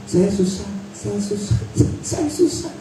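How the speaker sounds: hushed little complaint, last one jumping up; mock complaining. Preacher imitating complainers before his audience, mock complaining. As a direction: imitate a soft self-pitying complaint. Mocking people who complain of hardship.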